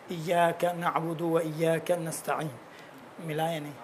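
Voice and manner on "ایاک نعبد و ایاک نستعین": ایاک said slowly with clear short i; ایاک drawn out, each vowel clear; slow careful ایاک نعبد; slow correct demo. Shown as a demonstration. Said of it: "وہ تھوڑا سی حالت آ رہی ہے".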